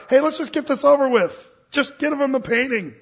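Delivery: a retold yell of an impatient bidder; jeering crowd. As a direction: shout it from the crowd, fed up. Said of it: "yells and jeers from the crowd".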